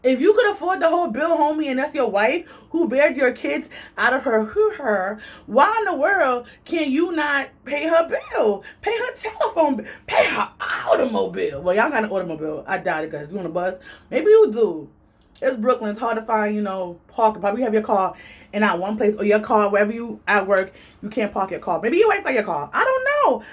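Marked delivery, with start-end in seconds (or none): 0.0-8.6 higher, heated disbelief; incredulous inner rant. Retold or imitated. Ranting inwardly at the man, incredulous and raised. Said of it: "in my mind, I'm like". 8.8-11.6 laughing through it, pitched up at first; laughing rant. Retold or imitated. Mocking the man's bill complaint, laughing. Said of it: "in my mind, I'm like". 22.7-23.4 a jump way up; playful shrug. Real, not acted. Teasing viewers about his car, high and playful.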